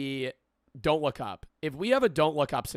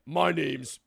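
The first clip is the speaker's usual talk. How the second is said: brutish Southern man; 3 semitones higher than usual. Retold or imitated. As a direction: start the prepper intro like a gruff Southern guy. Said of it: "a brutish Southern male".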